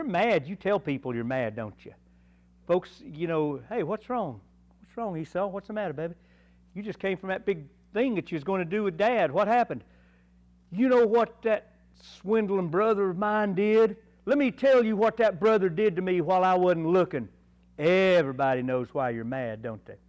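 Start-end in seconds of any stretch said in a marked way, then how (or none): 3.7-9.8 mock consoling folks. Folks comforting Esau in story. 10.7-17.3 higher, louder indignant complaint; hammed-up outrage at his brother; mock angry Esau. Esau complaining about swindling brother.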